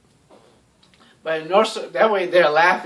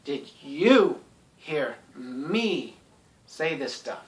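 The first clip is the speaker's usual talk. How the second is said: calm pointed question; slower than usual. Shown as a demonstration. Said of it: "It's like".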